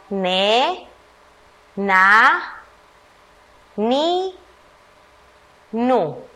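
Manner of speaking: put-on slow, separate syllables read aloud for children; syllable drill. Shown as a demonstration. Teacher reading the N syllables to first graders. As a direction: say each syllable on its own.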